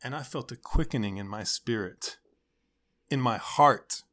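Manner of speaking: lightly voiced heartfelt youth pastor; building, preachy youth leader; upbeat youth pastor. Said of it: "the random youth pastor voice".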